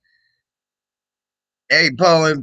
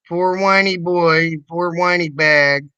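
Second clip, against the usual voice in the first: higher-pitched taunting coo; mock pity; 4 semitones higher than usual. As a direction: tease a whiner with fake sympathy. Mocks a whining clip.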